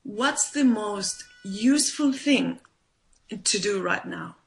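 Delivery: slow, deliberate "What's the most useful thing"; slow self question. Shown as a demonstration. Coach modelling the question a listener asks themselves, slow and deliberate. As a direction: ask it slowly, weighing each word. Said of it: "ask yourself".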